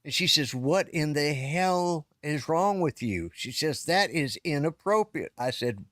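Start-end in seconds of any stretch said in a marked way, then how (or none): 0.5-3.3 slow, higher-pitched mock telling-off; imitated scolding. Sister-in-law scolding him outside church. 3.8-5.3 higher-pitched, mildly indignant reprimand; imitated scolding. Sister-in-law scolding him outside church.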